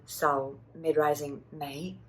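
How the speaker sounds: sao low, then a slow mid-rising mei; tone demo. Shown as a demonstration. Teacher modelling the tones of sao mei, slow. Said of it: "Sao is low tone".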